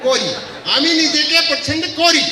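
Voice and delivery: "कोरी" with rounded o and final i; corrected Bangla pronunciation. Shown as a demonstration. Trainer learning Bangla repeats the line, "कोरी" the Bangla way. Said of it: "Bangla और हिंदी का थोड़ा सा pronunciation का फर्क है".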